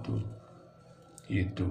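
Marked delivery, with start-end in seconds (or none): none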